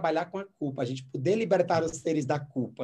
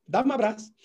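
startled; 6 semitones higher, 4 dB louder than usual. Retold or imitated. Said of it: "E ela".

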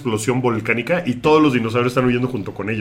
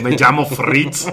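put-on German accent; slower than usual. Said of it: "habla como alemán".

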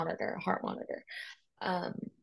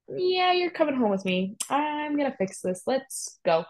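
higher, louder, brisk and decisive; take-charge mother-in-law; 8 semitones higher, 4 dB louder than usual. Retold or imitated. Mother-in-law taking her new-mom daughter-in-law home, brisk and firm. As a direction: sweep her up like a mother who won't take no. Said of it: "sweeped me and was like".

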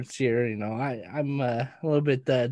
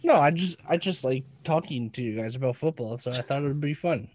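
protesting innocence. Acted. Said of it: "when you say it like that, you sound so innocent".

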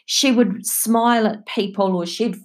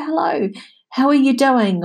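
high, bright imitated hello; sing-song mock greeting to cheer someone; cheery greeting; 6 semitones higher than usual. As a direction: chirp it like a friendly stranger. Voicing a friendly stranger's greeting.

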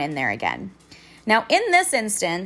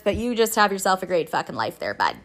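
sarcastic sign-off. Retold or imitated. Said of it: "me being fucking pissed off".

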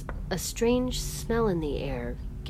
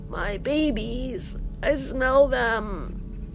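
high, very slow and aching; haunted grief; 7 semitones higher, much slower than usual. A narrator's reading. Medea calls for her dead babies, slow high keening. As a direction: draw it out like a keening mother.

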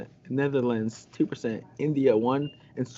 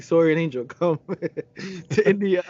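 excited invitation; 5 semitones higher, 5 dB louder than usual. Pretend. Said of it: "they'll be like".

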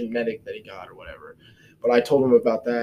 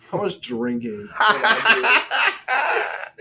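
goofy question; 9 semitones higher, much slower than usual. Retold or imitated. Asking pharmacist, joking.

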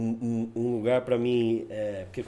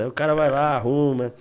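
usual speaking voice

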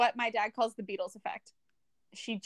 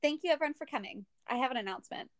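mock announcement; faster than usual. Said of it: "I would consistently go".

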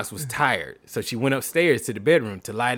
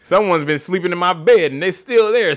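put-on higher baby bear; 5 semitones higher, 5 dB louder than usual. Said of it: "said the baby bear".

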